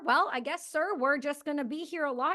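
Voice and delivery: folksy Canadian officer easing into bad news; Canadian accent. Agent at the door explains, in a Canadian accent. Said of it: "I'm gonna try to do the Canadian accent".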